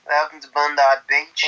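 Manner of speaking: broad mock Australian, lifting at the end; Australian accent. Welcoming visitors to Bondi, mock Australian accent. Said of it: "Australian accents".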